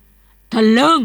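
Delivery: one loud furious word; old master exploding at Kimhuang's cheek; angry bark. Acted. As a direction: snap it out in outrage. Master glares, bursts out.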